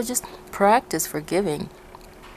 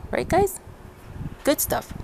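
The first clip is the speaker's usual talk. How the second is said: excited; 9 semitones higher, 3 dB quieter than usual. Real, not acted. Cheerful sign-off question.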